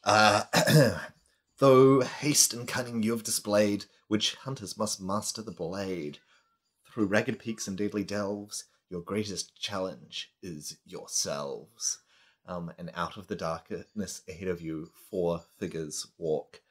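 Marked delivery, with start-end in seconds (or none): 0.0-12.0 spider voice. Acted. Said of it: "the spider says".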